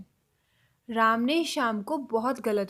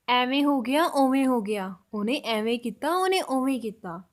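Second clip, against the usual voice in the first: louder, punchier Punjabi phrasing; forceful Punjabi; 5 dB louder than usual. Shown as a demonstration. Teacher contrasts forceful Punjabi with polite Hindi. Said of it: "थोड़ा ज़ोर से बोलना है आपको".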